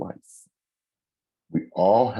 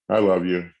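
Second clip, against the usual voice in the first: louder I love you; 3 dB louder than usual. Shown as a demonstration. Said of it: "Same words".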